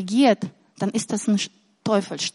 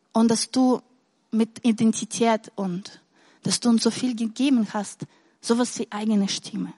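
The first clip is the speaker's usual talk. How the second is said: prayer. Real, not acted. Closing prayer.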